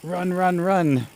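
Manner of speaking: high, urgent run-run cries; being chased. Real, not acted. Goat running off.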